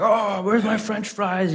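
drawn-out, indignant mock complaint; mock angry. Angry shop owner complaining to his wife about food, mock angry. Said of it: "He starts getting real angry".

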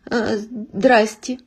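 slow, halting terrified greeting. Acted. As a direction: stammer it out in fear. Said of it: "охваченный ужасом".

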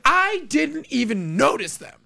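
high, laughing fake innocence; mock innocence. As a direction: claim innocence while cracking up. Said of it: "I was like".

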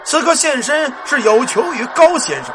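slow, solemn ghostly general's voice. Acted. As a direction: speak slow like an underworld officer. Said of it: "这人说了". (阴间鬼将军缓慢庄重的声音)

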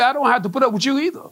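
"I don't have to put up with you either" rattled off fast, a hint of a stern Holy Ghost; quick, lightly voiced Holy Ghost snapping back; Holy Ghost answering. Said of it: "hear the Holy Ghost say".

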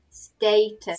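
"Status" with a long A, STAY-tus. Shown as a demonstration. Teacher shows the long A, "Status" as STAY-tus. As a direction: clear model of "Status", first vowel as in "stay". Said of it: "So it's the long A".

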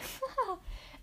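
short high laugh. Acted. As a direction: burst of high, amused laughter. Laughing at the uncovered prank.

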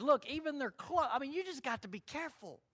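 Jude urging believers to beware of false teachers, lightly voiced pleading; Jude's earnest warning. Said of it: "He says".

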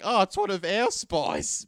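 high, loud, slow mocking passengers; mock relieved passengers. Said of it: "They'd be like".

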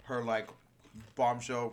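talking while crunching chips; words round a mouthful of chips. Real, not acted. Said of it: "we're crunching on chips".

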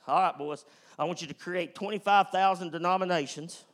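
loud, sarcastic orders to the disciples; mock stern command. Preacher mocking church rules, loud sarcastic command. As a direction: bark out petty rules in mockery.

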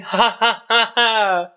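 sarcastic forced ha ha; mock laugh. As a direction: fake laugh at his own joke. Fake laugh after own joke.

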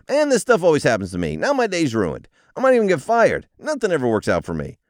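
high, loud, whining self-pity; whiny inner voice. Pretend. Commuter who missed the bus, in a high whiny wail. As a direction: wail like everything is ruined.

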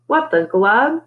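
high, rising disbelief; mildly stunned outburst; shocked exclamation. A narrator's reading. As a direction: let the question climb, baffled. Character's shocked reaction, unspoken exclamation.

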